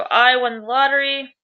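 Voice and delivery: a lively mock shout of "I won the lottery"; yelled excitedly. Shown as a demonstration. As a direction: announce the win, lightly hammed-up. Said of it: "They yelled".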